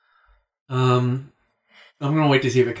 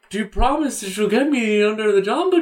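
ghostly voice; 6 semitones higher than usual. Pretend. Still playing Matt's ghost.

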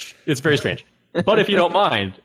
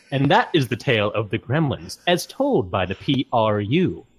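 poem recitation. Pretend. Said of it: "Percy Prune voice".

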